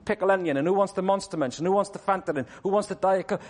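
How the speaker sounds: lightly voiced fussing over snacks; mildly mock busy handing out food; fussy disciples. Disciples sorting their meal deals, lightly mock fussing. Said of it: "they're saying".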